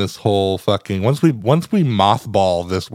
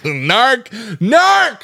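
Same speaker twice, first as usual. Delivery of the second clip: high yelled accusation; shout; 12 semitones higher, 4 dB louder than usual. Pretend. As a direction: call him out loudly. Mock accusation of a friend.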